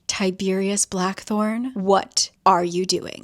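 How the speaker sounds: slow, stern full-name call-out; slow disapproving scold. Retold or imitated. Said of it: "Julian just says".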